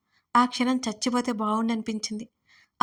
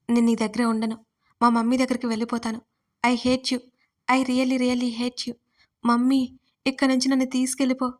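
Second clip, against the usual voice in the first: raised, distraught outburst; shouting in tears; 3 dB louder than usual. Acted. Bride screaming at Adil that she will leave, distraught shout. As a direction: hurl it at him, begging for mum. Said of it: "అని గట్టి గట్టిగా అరిచేస్తూ".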